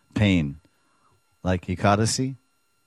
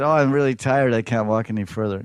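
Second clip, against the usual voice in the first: whiny Radharani; 3 semitones higher, 4 dB louder than usual. Acted. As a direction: moan that you can't go on. Radharani complaining of tiredness.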